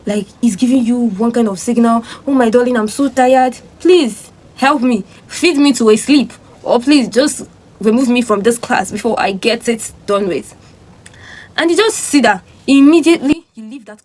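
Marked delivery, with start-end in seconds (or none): 2.3-10.5 tired pleading. Acted. Acts tired brain begging for sleep.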